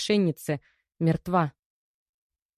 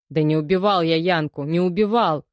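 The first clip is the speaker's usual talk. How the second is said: loud desperate protest; desperate wail; 5 dB louder than usual. Acted. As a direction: plead your innocence at full voice. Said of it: "возопил Касатонов". (громкий отчаянный вопль)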